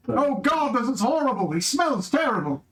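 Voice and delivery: high, disgusted complaint. Acted. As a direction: recoil from the stench. Disgusted character reacting.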